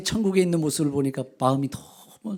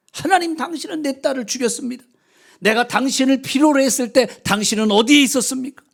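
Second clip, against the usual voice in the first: much higher, louder desperate wail; anguished outcry; 6 semitones higher, 5 dB louder than usual. A narrator's reading. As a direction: scream the accusation at God in anguish. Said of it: "절규를 합니다".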